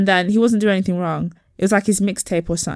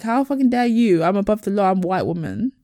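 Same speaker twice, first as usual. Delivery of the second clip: entitled Karen. Retold or imitated. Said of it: "the entitlement that she felt".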